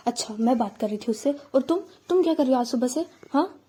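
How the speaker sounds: quick irritated comeback; angry retort. Acted. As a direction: fire it back fast, annoyed. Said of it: "आ जाता है मेघा को गुस्सा".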